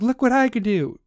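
high, showy mocking voice; a put-on bragging tone; mock flaunting voice. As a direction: parody someone showing off their surgery.

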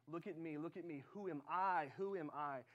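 "look at me" steady, then "I" hit harder in "Who am I"; God's answer. Retold or imitated. God redirects Moses to Himself, firmly stressing "I". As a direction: turn the question back with weight on "I". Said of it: "And God says".

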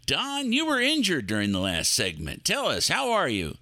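upbeat cable show host. Acted. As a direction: welcome viewers like a TV host.

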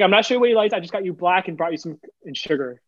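high, gentle, kind coworker; sweet coworker voice. Retold or imitated.

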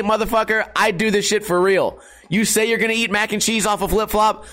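ordinary talk, nothing marked

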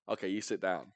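understated order, no aggression in it; imitated unaggressive order. Imitating Don Lee walking into a drug deal, calmly unaggressive. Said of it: "he's not aggressive, really".

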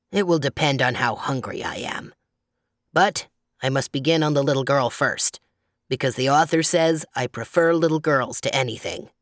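deep, deliberate grizzly voice; growling bear. A narrator's reading. Bear insisting the little girl comes first, deep growl. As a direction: keep up the bear's low growl. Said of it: "growled the bear".

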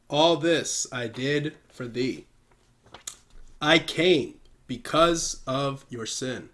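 slow, solemn pamphlet reading. Acted. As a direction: read it slowly like scripture. Reads pamphlet aloud solemnly.

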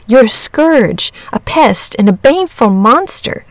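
lightly voiced boy, urgent warning; a hint of an earnest boy spelling out the danger; exasperated boy. Boy warns the dragon.

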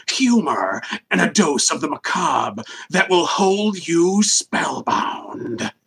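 slow, dramatic nineties trailer narrator; movie trailer voice. Acted. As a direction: read it like a cheesy movie trailer. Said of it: "I'm gonna do it in the trailer voice".

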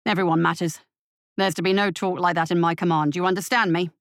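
low, firm rebuke; curt captain. Acted. Captain curtly rebuking his deputy, low and firm. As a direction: cut him off, stern and short. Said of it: "interrupted him curtly".

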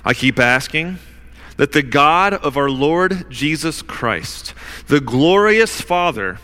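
measured public Bible reading, pausing between phrases; scripture reading. Real, not acted. Preacher reads Paul's prayer to the congregation, measured scripture reading. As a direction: read it out deliberately, weighting the key names.

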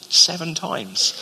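slow, pleased-with-himself offer; smug generosity. Retold or imitated. Peter showing off his generosity to Jesus, slow and smug. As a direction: draw it out like it's a grand gift. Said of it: "blow his mind with my generosity".

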